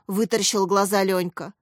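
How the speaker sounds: ordinary delivery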